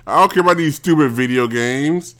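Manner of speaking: worked-up, insistent tirade; irritated rant. Real, not acted. Angry rant dismissing video games.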